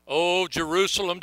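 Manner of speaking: full ringing cry of Oh Jerusalem; lament call. Acted. Preacher voicing Jesus calling to the city, ringing lament. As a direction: call out Jerusalem like a grieving prophet.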